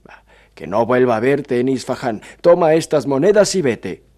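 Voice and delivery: animated storyteller's judge, swelling loud at the peaks; mock the dreamer, then dismiss him loudly; theatrical rebuke with rises and drops; scoffing judge, dismissive. Narrator voices the scoffing judge.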